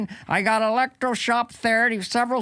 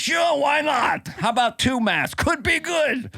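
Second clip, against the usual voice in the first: mock shouting Fauci; 5 semitones higher than usual. Fauci answering mask question.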